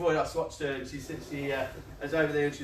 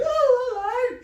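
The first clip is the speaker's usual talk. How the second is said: very high, loud, gushing hello; mock sing-song neighbour greeting; 9 dB louder, slower than usual. Neighbour over the fence, high mock greeting. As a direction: squeal it like a nosy neighbour leaning over the fence.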